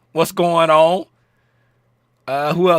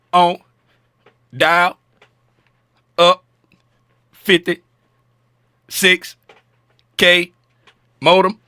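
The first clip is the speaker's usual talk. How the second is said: slow, broken-up words like a lagging connection; dial-up modem voice; much slower than usual. Pretend. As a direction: drag each word out like a laggy dial-up line. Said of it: "I bet I sound like this right here".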